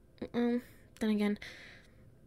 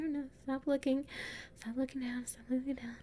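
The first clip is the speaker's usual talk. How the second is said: softer hushed repeating to self; quiet anxious mantra; nervous self-talk; 5 dB quieter than usual. Acted. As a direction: talk yourself out of looking down. Afraid of height on stairs.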